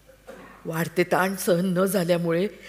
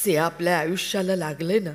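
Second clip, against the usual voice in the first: ordinary talk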